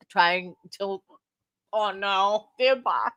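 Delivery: talking through hiccups; speech broken by hiccups. Real, not acted. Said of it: "I've been having hiccups all day".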